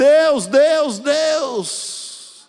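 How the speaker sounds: loud, pleading cry, pitched very high. Retelling how a man cried out to God, retelling a man crying out. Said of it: "Começou a gritar e clamar".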